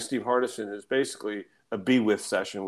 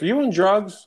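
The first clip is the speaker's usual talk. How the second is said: high, louder voice tipping into laughter; incredulous woman operator; 9 semitones higher, 6 dB louder than usual. Retold or imitated. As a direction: imitate her disbelief while starting to laugh. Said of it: "she's like".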